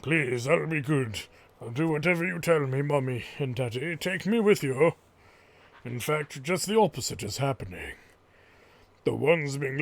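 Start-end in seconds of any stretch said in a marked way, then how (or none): 0.0-4.9 put-on a frightened young girl begging her parents not to leave; pleading little girl voice. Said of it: "It's hard to do this voice".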